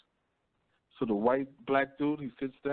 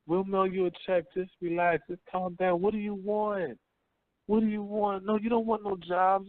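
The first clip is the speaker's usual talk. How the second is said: higher, soothing mock-politician voice; lightly voiced placating official; hint of a condescending politician, pitched higher; mock liberal voice; 5 semitones higher than usual. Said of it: "Liberal society".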